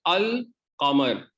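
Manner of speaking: अल कमर with a clear l; अल कमर, l fully spoken; lam pronounced. Shown as a demonstration. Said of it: "लाम को pronounce किया जाता है".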